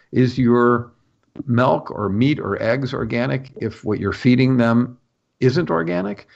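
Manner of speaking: posed question climbing high at the end; retold challenge with a high rising finish; rhetorical question. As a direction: put it to them as a pointed question, ending high. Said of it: "I asked a rhetorical question".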